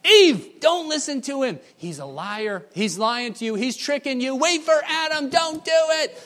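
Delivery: very high, very loud frantic yell of warning; furious shouting. Retold or imitated. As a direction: scream at her to stop. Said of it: "They're just mad as all get out".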